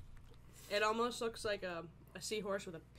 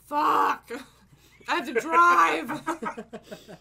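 loud panicked yell; panicked shout; 7 semitones higher, 16 dB louder, much slower than usual. Retold or imitated. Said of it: "I was like".

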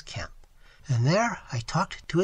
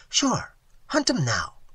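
slow, higher, emphatic broken English; imitated Seminole man; 6 semitones higher, 4 dB louder, slower than usual. Waitress imitates Tigertail confirming the hunt, emphatic. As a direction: insist slowly in his voice. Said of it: "even imitating his voice and gestures".

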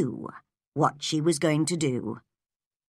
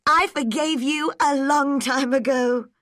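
Anne, teasing and light; 8 semitones higher, 4 dB louder than usual. Acted. Anne answering Gilbert.

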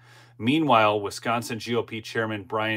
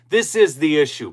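emphatic; 4 semitones higher, 6 dB louder than usual. Real, not acted. Ranting about election integrity.

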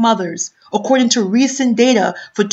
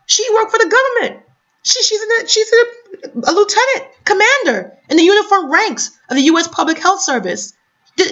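indignant outburst; 3 semitones higher than usual. Real, not acted. Indignant about educated Black mother.

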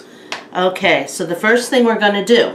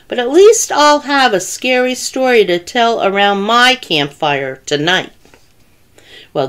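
animated, louder storybook reading; children's story narration; 4 dB louder than usual. A narrator's reading. Storyteller reading a penguin tale to children, animated narration. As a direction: read it out expressively for young listeners. Reads a picture book aloud.

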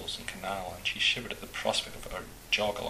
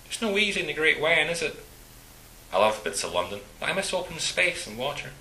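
Scottish man voice; 7 semitones higher, 5 dB louder than usual. Acted. Walter voiced by narrator.

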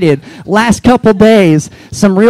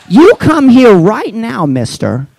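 put-on Boston accent; 3 semitones higher, slower than usual. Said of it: "in her Boston accent".

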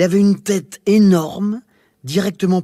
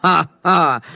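monster sniggering; 4 dB louder than usual. Acted. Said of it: "ricana le monstre au loin".

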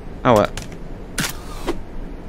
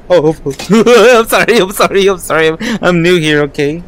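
startled, pleading, then settling down; flustered apology. Real, not acted. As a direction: blurt out a panicky apology. Startled, apologising to the game character.

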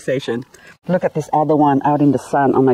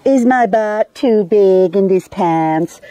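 imitating the wife; 4 semitones higher, slower than usual. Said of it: "the wife asking the husband".

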